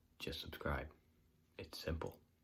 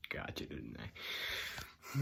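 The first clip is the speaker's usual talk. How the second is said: whisper; 7 semitones lower, 6 dB quieter, much slower than usual. Acted. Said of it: "teasing viewer after trick".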